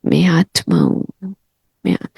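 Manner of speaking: unhurried meditation demo; drawn-out, calm मैं आत्मा हूँ; slow, measured affirmation. Shown as a demonstration. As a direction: say मैं आत्मा हूँ slowly and softly, word by word. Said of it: "तुम धीरे धीरे बोलो".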